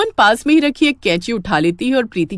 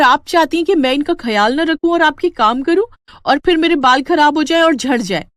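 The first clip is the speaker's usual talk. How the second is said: raised, louder angry outburst; angry retort; 5 semitones higher, 3 dB louder than usual. Acted. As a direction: snap back at the mother-in-law, higher and louder. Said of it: "प्रीति को गुस्सा आ जाता है". (बहू का ऊँची, तेज़ आवाज़ में गुस्से भरा जवाब)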